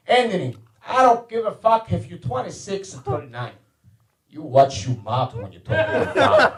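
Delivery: put-on stern warning with light Italian accent; imitating an Italian dad laying down the law; Italian father's accent. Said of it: "most fucked up Italian accent".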